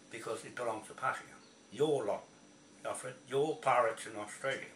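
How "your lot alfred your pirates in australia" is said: loud, furious jab; angrily calling out Alfred's lot in Australia; angry accusation. Real, not acted. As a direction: hurl the accusation at him. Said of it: "I'm saying it like that because".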